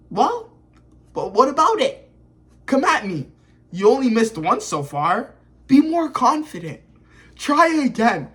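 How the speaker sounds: playful acted taunting; teasing taunt. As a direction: egg on a rival, pitch lifted. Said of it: "he just starts teasing Code".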